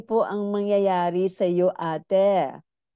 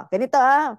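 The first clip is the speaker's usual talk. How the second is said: fake moan demo; 5 semitones higher, 5 dB louder, faster than usual. Shown as a demonstration. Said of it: "Watch me".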